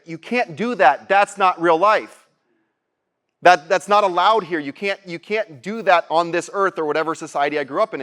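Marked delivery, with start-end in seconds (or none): 0.1-6.8 slow, mildly stern voice of doubt; lightly voiced scolding inner voice, slowed down; inner critic voice. The doubting voice in his head forbidding the trip, slow and mildly stern. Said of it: "these voices in my head".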